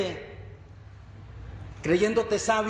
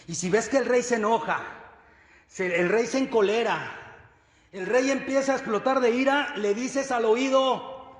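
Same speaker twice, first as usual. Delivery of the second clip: mildly urgent, raised-pitch instructions; officer briefing a messenger; 5 semitones higher than usual. Acted. Officer briefs a messenger on the king's temper, mounting urgency. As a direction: build up the warning as the imagined anger rises.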